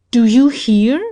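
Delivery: furious shout. Acted. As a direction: shake the answer out of her. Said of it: "shook her furiously".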